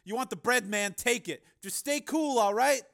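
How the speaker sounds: high-pitched, loud nervous placating; uneasy. Acted. Pimp offering his money to the gunman, uneasy. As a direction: talk the gunman down, voice pitched far up. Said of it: "he said uneasily".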